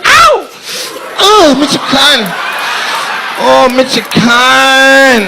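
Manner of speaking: high, drawn-out hometown holler; mock scream, stretching the last word; imitated scream. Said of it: "She screamed".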